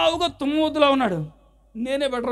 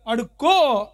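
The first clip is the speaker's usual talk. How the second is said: "అడుక్కో" punched loud and sharp; a mock rude "అడుక్కో", said loudly; loud inner jab; 5 dB louder, much slower than usual. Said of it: "లోపల మాత్రం నాకు నచ్చినంతసేపు గట్టిగా". ("అడుక్కో" గట్టిగా, దురుసుగా)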